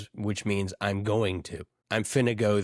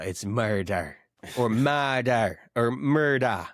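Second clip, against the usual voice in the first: Jamaican murder; slower than usual. Shown as a demonstration. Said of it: "in Jamaica".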